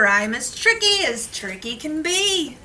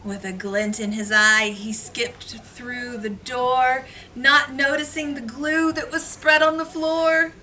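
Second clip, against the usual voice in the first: put-on reading to children; 2 semitones higher than usual. Reads picture book to class.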